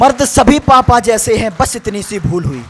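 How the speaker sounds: measured, singsong stage verse; plaintive verse in a child's words; poem recitation. Acted. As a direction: recite to a hall, drawing out line endings. Repeats the poem's closing couplet.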